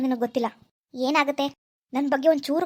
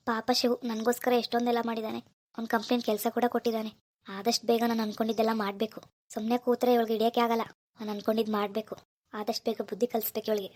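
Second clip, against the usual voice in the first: low, much softer private scheming; husband alone, quietly plotting against his wife; quiet scheming to himself; 3 semitones lower, 6 dB quieter than usual. Acted. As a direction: plot under your breath. Husband muttering plans to himself.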